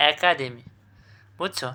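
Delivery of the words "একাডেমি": একাডেমি opening on "æ", "æ-kademi"; correct pronunciation. Shown as a demonstration. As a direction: open the first vowel of একাডেমি to "æ". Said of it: "সঠিক উচ্চারণ কী হবে". (একাডেমিকে "অ্যাকাডেমি" উচ্চারণ)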